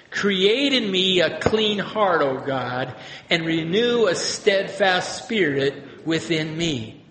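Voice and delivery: slow, measured prayer reading; prayer read aloud. Shown as a demonstration. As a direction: read it slowly, like scripture. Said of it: "this can be a prayer".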